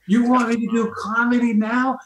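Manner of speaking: high-pitched, mock-appalled disbelief; incredulous protest. Comic called up after tearful speech, acted incredulity. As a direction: squeal it in disbelief.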